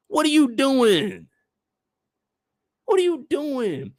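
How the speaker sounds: slow, cracking cry of disbelief; exasperated plea. Real, not acted. Begging Phil to explain the purchase, exasperated plea. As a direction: plead with him to stop.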